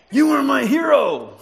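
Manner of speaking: high, loud mock cry of the fan; mock fan shout. Preacher mocking the fan's words on the bill, loud and high. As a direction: belt it like the gushing fan, ironic.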